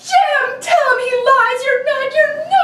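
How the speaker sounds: crying it out; tearful denial. Acted. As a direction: beg him to deny it. Wife pleads through tears.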